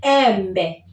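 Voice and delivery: embe said with an open e; Swahili embe. Shown as a demonstration. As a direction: model embe for repeating. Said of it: "Words like embe".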